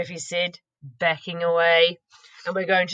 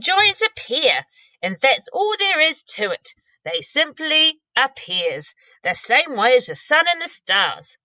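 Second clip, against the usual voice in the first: gentle giant explaining wonders; 7 semitones higher, 3 dB louder than usual. Acted. BFG explaining slowly.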